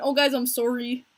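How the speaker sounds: lightly imitated Canadian "sorry"; Canadian accent. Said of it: "He says, like, the Canadian".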